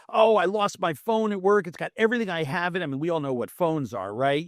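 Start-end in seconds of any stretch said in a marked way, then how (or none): 0.1-2.8 higher, rushed upset roommate rant. Retold or imitated. Roommate retelling the lost phone, mock upset rant. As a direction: gush out the lost phone panic.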